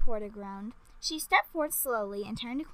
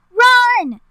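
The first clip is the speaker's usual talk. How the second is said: high, loud cry to run; fearful yell; 12 semitones higher, 17 dB louder than usual. A narrator's reading. Queen warns everyone of the giant foot, high fearful yell. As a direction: yell it in alarm. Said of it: "Queen Samantha yelled fearfully".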